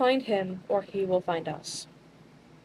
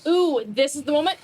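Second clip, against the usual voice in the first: higher, louder eager aside; excited whisper-thought; 8 semitones higher, 7 dB louder than usual. Acted. Cyrus seeing his chance, eager and louder. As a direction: seize the moment with glee. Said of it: "He's like".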